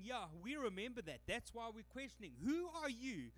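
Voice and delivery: scoffing leaders rising to a high indignant challenge. Acted. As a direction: play the affronted priests demanding who he is. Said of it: "they would have been going".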